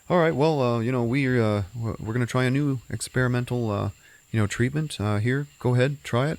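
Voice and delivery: lightly voiced, brisk physician.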